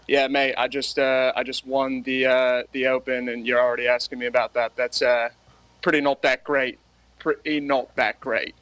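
Australian accent, mildly put on; understated Australian accent impression; Cam Smith. Shown as a demonstration. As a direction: do an Australian golfer, halting. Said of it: "your best Australian accent".

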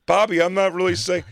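high, strained protest from the background; pleading from the background over the noise. Retold or imitated.

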